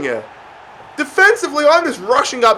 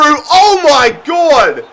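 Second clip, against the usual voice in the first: shocked shout; 4 semitones higher, much slower than usual. Real, not acted. Shocked at a near miss.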